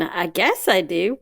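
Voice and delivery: slow Southern-tinged answer; drawn-out Southern vowels. Real, not acted. Admitting to the host she sounds out characters, Southern. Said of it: "really went Southern on that".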